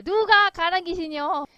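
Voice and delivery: ordinary talk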